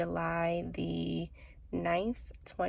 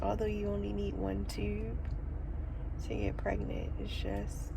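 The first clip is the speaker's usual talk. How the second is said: holding back tears; 3 semitones higher, 4 dB quieter than usual. Real, not acted. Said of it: "so I'm trying not to cry".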